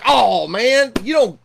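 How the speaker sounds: Jesus imagined scolding Mary, mock exasperated; mock exasperation. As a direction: play an exasperated teacher, half in jest. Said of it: "Jesus would be mad at her and be like".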